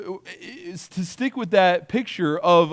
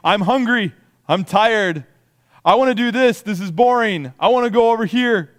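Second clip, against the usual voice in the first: raised mock whine; complaining; 4 semitones higher, 5 dB louder than usual. People complaining to a parent, mock griping in a raised voice. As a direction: imitate a string of petty complaints. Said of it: "We complain".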